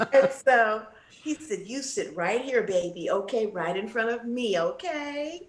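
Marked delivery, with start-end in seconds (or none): 1.7-5.5 imitating his sweet tone. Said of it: "that's how he talked to me".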